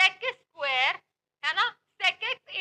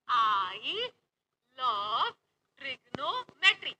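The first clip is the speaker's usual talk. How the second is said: mock swoony slogan; 7 semitones lower, much slower than usual. Shown as a demonstration. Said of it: "repeats slogan".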